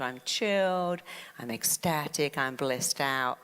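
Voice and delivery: slow, drawn-out calming words; chilled self-talk. Retold or imitated. Coach calming herself back down in the scanner, chilled. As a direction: settle back down, word by slow word. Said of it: "I had to go back into".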